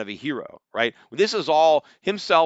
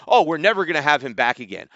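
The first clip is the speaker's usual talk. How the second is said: mock apology; 5 dB louder than usual. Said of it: "the conference has said".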